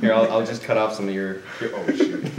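quick words through laughter; laughing. Real, not acted. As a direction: rush it out while laughing. Laughing while cutting.

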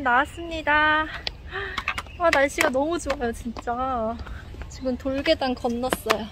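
muffled behind mask; speaking through cloth mask; through a face mask. Real, not acted. Seen 0: Woman wears white surgical mask over mouth throughout the outdoor walk.

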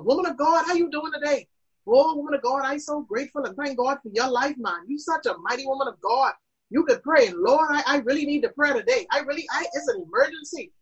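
gushing, pleading churchgoer, lightly voiced; mock flattering then frantic plea; acted desperate prayer request. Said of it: "let me give you an example".

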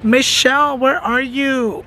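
drawn-out searching call; playful calling out. Acted. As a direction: call out slowly, stretching the words. Calling for a customer she can't find.

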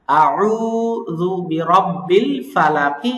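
very slow, drawn-out chant; slow tajweed chanting; Quran recitation. Shown as a demonstration. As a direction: recite slowly with the madd. Recites the verse.

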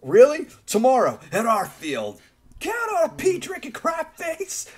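high, bratty playground insult; taunting kid. Retold or imitated. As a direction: yell it like a cocky kid. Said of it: "And one of which saying".

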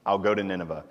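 low, soft, sulky giving in; grudging Jonah. Retold or imitated. Preacher voicing Jonah giving in to God, grudging and low. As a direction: mutter it like a reluctant prophet who lost the argument.

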